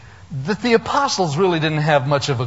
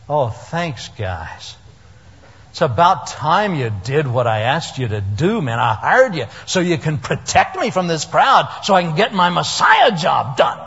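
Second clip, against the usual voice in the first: sarcastic thanks. Pretend. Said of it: "what I would have said".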